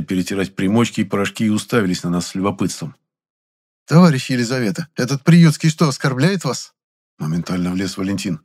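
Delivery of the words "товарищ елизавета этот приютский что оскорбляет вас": louder, higher, meddling voice; officious busybody. A narrator's reading. Valentin butts into the quarrel, meddling. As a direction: butt in eagerly.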